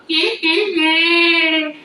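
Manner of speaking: high mock cackling laugh, sing-song; mock cackle. Vlogger mocks Kamala with a high cackling laugh. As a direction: cackle like a sneering parody.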